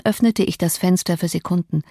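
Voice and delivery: ordinary delivery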